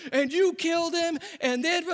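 high, loud accusation, stress on you; accusing preacher. Retold or imitated. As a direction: point the finger as you preach. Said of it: "he just goes into this whole thing like".

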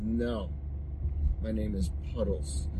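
low, soft, slow and grumbling duck voice; a fed-up duck growling the punchline low and slow; grumpy duck. Acted.

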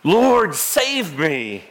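a lifted, pleading call of Lord, then save me dropping back; retold cry for help. Peter sinking in the wind cries out to Jesus, mild mock cry. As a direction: call out for rescue, half-acted. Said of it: "he cries out".

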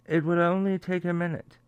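put-on quick, light British accent. Host quoting Johnson's call with Putin, light British accent. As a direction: toss it off in a mild British accent. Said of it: "I did the British".

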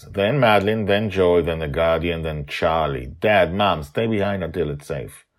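loud, firm order to move; commanding leader. A narrator's reading. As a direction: take charge of the team. Justin sets marching order.

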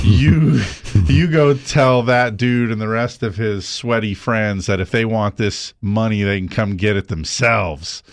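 a touch of defiant anger, slowed; lightly voiced angry delivery guy; mild mock defiance. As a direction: tell the boss off, half-playing it. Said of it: "And he said".

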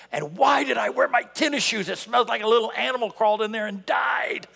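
hammed-up embarrassed yell; mock panic shout. Preacher acting a churchgoer panicking about socks, shouted. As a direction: shout it in comic alarm.

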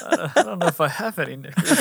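put-on country accent. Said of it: "in country accents".

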